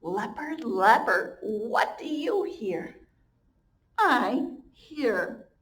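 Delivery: sing-song slow storybook read; reading to children. Acted. Teacher reads the refrain aloud to her class, slow and sing-song. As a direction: chant the refrain for little ones.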